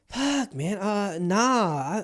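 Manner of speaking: high, drawn-out hesitant refusal; mock dismay sliding into a no; acted reluctant dodge. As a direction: wriggle out of the question reluctantly. Acted hesitant answer, dodging the question.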